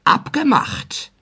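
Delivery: high, slow „Abgemacht“ with mild glee; Kaspar calling out. A narrator's reading. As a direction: stretch „Abgemacht“ up high, pleased. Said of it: "rief Kaspar Schlich". (hoch und gedehnt gerufenes „Abgemacht“)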